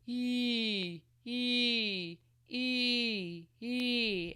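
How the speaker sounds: moderate, focused ee; a gentler scold on ee; milder scolding ee. Shown as a demonstration.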